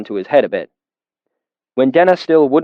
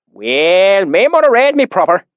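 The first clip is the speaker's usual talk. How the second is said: pious; 7 semitones higher, 4 dB louder than usual. Acted. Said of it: "the swineherd said piously".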